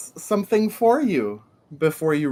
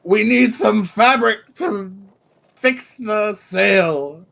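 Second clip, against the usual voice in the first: captain voice; 4 semitones higher, 3 dB louder, slower than usual. Acted. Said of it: "he says".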